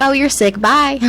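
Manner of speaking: high, breezy brush-off of a sick inmate; dismissive mock quote. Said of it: "They were just like".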